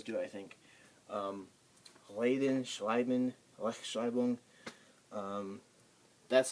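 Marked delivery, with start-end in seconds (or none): 2.2-4.4 slow reden with a throaty R; German throat R. Shown as a demonstration. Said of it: "it's a throat-like sound".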